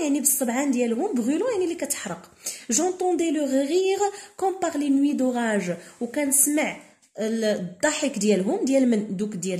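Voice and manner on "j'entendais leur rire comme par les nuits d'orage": slow, careful reading of a literary passage; reading aloud. Shown as a demonstration. Teacher reading the novel to students, slow and deliberate. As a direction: read each word slowly for the class. Teacher reads the French text.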